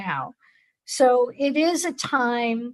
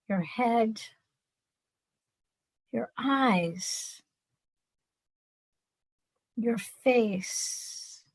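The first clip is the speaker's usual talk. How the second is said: guided meditation. Acted. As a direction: ease them into calm, pausing long.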